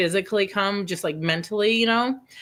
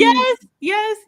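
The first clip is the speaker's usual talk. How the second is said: emphatic yes; 13 semitones higher, 7 dB louder than usual. Real, not acted. Emphatic agreement to Emily.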